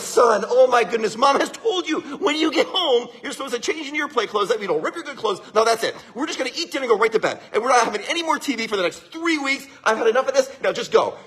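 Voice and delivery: acted exasperated mother telling off her child; mock parental scolding, brisk in places; scolding mom. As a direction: lay down the law as a fed-up mom. Fed-up mother scolding her son.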